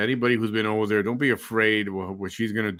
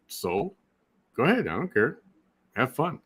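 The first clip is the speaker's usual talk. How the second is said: dismissive attitude; 4 semitones higher than usual. Shown as a demonstration. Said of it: "take the attitude like".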